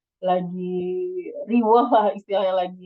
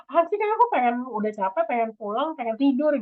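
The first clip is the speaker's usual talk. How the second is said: whiny refusal; 4 semitones higher than usual. Retold or imitated. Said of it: "Kitanya jadi kayak".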